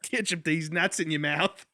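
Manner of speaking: mock-Aussie punchline; playful Australian imitation; Australian accent. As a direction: land the joke in a put-on Australian accent. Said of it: "talk the rest of this episode in that accent".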